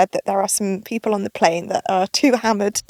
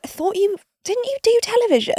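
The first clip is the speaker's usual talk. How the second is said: mock questioning; 10 semitones higher than usual. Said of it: "he'd be like".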